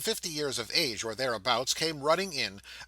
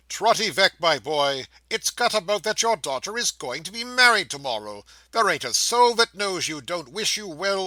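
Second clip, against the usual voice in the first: put-on a louder, higher, booming drunk drummer's speech; tipsy drummer; 4 semitones higher, 5 dB louder than usual. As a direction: hold forth grandly to the room.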